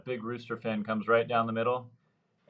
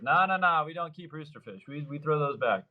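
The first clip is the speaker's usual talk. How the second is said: laughing buddy; 5 semitones higher than usual. Retold or imitated. Buddy explaining release.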